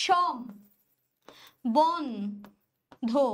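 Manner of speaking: সম, বন, ধো with long pauses between; syllable-by-syllable demo. Shown as a demonstration. Teacher explains the word to students, syllable-by-syllable demo. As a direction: sound out সম, বন, ধো one at a time. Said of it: "সম্বন্ধের উচ্চারণ হচ্ছে".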